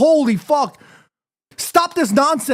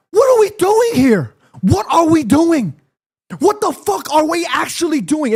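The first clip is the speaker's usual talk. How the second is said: exasperated, raised-pitch demand; heated; 2 semitones higher than usual. Real, not acted. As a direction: demand answers from your own side. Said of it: "I got a little heated".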